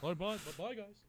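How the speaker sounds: soft, lightly voiced narwhal goodbye; a hint of the Elf narwhal. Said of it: "You sounded like the narwhal from".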